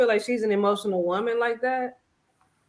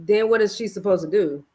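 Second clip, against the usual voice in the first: ordinary delivery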